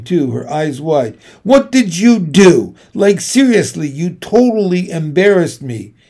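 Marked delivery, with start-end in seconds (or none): 1.4-5.9 loud, accusing sister; angry confrontation. Acted. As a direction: throw the blame at her sister, loudly. Sister angrily confronts the narrator.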